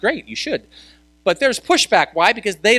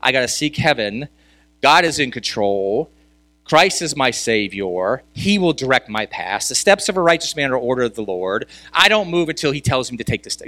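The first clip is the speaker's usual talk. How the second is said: lightly voiced believer, calm and sure; believer's faith talk; 3 semitones lower than usual. Pastor showing how believers talk, lightly voiced. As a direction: speak it like a steady believer sharing faith. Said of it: "We talk like this".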